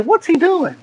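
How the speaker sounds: high, soft puzzled murmur. Retold or imitated. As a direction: wonder under your breath. Disciples wondering quietly.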